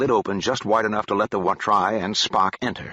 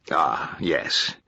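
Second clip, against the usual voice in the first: breathy whisper, pitch lower; whispered aside; 5 semitones lower than usual. Acted. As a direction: let it slip out as a whisper. Remembering the problem of recovery.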